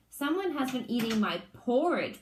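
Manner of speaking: a hint of a big bear's bellow; mild big bear bellow; papa bear finds his porridge eaten, mock bellow; lightly bellowed Papa Bear. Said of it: "bellowed in his great big voice".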